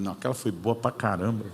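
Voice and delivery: laughing through the reply. Retold or imitated. Retelling a playful reply to mentor. (rindo ao responder ao mentor)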